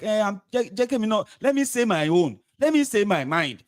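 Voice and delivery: mock his feeble bid to speak; mock whiny voice. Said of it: "they want to try and be like".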